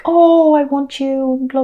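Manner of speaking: hammed-up lover's plea, half imitated; passionate. Reader voicing a keen lover pulling her close, mock passionate. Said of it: "very, very passionate".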